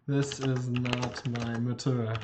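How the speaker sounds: This is not my motor, word by word; slow translation, deliberately; slow careful English. Shown as a demonstration. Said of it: "slow careful translation".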